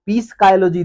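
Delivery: पीसकायोलॉजी with the P spoken; wrong reading with P; sounded P. Shown as a demonstration. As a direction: start पीसकायोलॉजी on a clear P. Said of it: "तो नहीं पढ़ेंगे".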